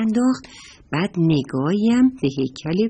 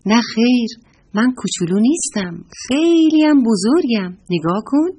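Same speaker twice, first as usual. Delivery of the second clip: indignant little squirrel, pushed higher and louder; upset protest; 5 semitones higher, 5 dB louder than usual. A narrator's reading. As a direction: protest like an offended little one. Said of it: "با ناراحتی گفت". (با دلخوری و اعتراض)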